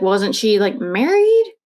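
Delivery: rising, disbelieving "married?"; incredulous question. Retold or imitated. Anna questioning Will about the married landlord, incredulous. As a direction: ask it in sharp disbelief.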